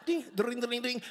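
spoken telephone ding-ding; imitated phone ringing. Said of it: "So I called up".

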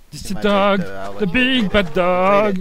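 put-on slow, drawn-out French-accented English announcement; spooky trailer announcement in French-accented English; mock announcer. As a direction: introduce the big bad dog like a trailer voice-over. Announcing the dog enemy.

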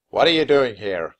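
loud, angry demand; acted fury, loud and forceful; furious. A narrator's reading. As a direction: demand an answer as a furious commander. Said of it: "The commander-in-chief sounded furious".

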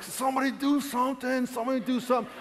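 high-pitched plea held back from shouting; barely contained panic. Retold or imitated. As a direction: plead high, trying not to go crazy. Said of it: "I'm trying not to go crazy".

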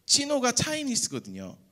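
usual speaking voice

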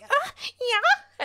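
high, drawn-out awkward "uh, yeah"; awkward fan reply. Retold or imitated. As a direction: imitate an awkward convention chat. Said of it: "We just kept being like".

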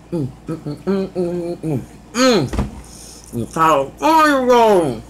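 talking while chewing food; muffled closed-mouth hums; mouth full, chewing. Real, not acted. Seen 1: Sushi roll goes into mouth at 0.6s; lips closed, cheeks working afterward.

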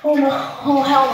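loud shout from the cold; cold shock shout. Real, not acted. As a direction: yell out as the icy water hits.

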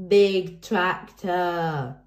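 put-on slow, drawn out toddler voice; a small boy proudly shouting; toddler cry. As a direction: George excited about the tractor. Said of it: "cried George".

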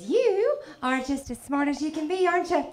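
high, sweet put-down rising at the end; backhanded sweetness. Retold or imitated. Alabama nana to grandchild, sweetly condescending. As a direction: imitate a sugary Southern nana. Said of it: "saying stuff that sounds sweet".

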